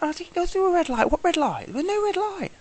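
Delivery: high indignant protest; mock protest. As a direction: deny it in a squeaky outraged voice. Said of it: "I'm like".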